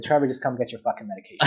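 quoting the doctor through a laugh, a bit quick; laughing exasperation. Retold or imitated. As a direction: laugh while voicing the fed-up doctor.

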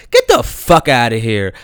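ordinary talk

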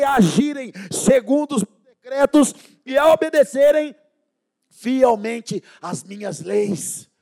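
loud fiery scripture shout; booming preacher proclaiming God's promise; preaching at full force. Acted. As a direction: thunder the verse at the church.

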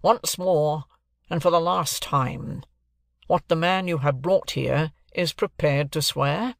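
slow, measured stern question. Acted. Guardian questions Mike for the last time, sternly. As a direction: spell out a last warning slowly. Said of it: "very sternly".

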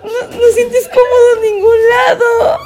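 high, loud, half sobbing, half laughing; laugh-crying outburst. Real, not acted. To her friend, laugh-crying that she is the uncomfortable one. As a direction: break down laughing and crying while insisting.

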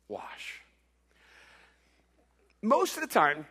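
ordinary talk

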